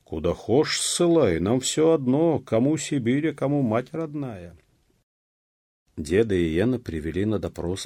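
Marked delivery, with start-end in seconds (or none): 0.0-4.6 high, loud defiant voice; defiant retort. A narrator's reading. Peasants answer the threat of exile, defiant. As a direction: fling it back with raised pitch.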